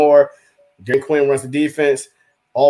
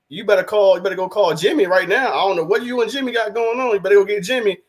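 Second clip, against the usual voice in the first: higher-pitched insistent quote; urgent retold demand; 6 semitones higher than usual. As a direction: act out an urgent order to a boss. Acts out Switzer's urgent demand to Jones.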